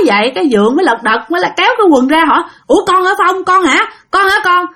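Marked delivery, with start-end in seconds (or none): 2.7-4.7 surprised. Acted. Father recognizes dead son.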